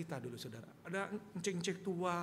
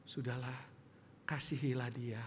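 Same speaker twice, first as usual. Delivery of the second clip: gentle Jesus; 6 semitones lower, 4 dB quieter than usual. Retold or imitated. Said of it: "Tuhan Yesus ngomongnya gini".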